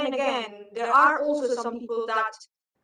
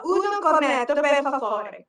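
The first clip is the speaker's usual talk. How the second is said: put-on lightly Italian-accented order; 2 semitones higher, 4 dB louder than usual. Learning to order from the barista, lightly Italian. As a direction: practise the phrase like a learner. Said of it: "taught me how to order".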